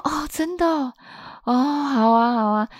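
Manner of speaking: a hint of a startled mom; voicing mom. Mother woken at night answering her daughter, lightly voiced. Mom's sleepy reply voiced.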